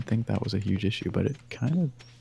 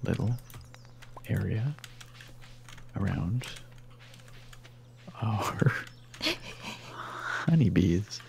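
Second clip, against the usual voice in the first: word by word, with long pauses; oddly halting; 4 dB quieter, slower than usual. Real, not acted. Gamer narrating her planting plan to her co-op partner, oddly halting. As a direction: break the phrase into small, separated pieces. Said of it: "I don't know why I'm talking like this".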